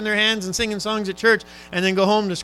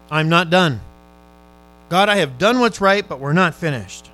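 loud plea; 2 semitones lower, 6 dB louder than usual. Retold or imitated. Voicing the king's plea.

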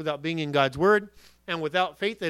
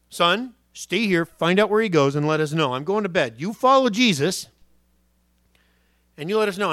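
mock dad giving orders, louder; imagined father; 5 dB louder than usual. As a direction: boss the boy around like a dad. Father voiced in imagined story.

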